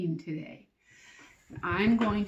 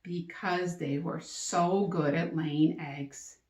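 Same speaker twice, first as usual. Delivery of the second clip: slow model answer; 2 semitones lower, slower than usual. Shown as a demonstration. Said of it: "Now, I might say".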